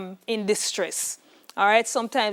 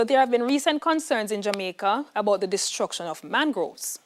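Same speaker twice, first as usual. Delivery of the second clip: whispered reread. Shown as a demonstration. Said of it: "here is your practice question".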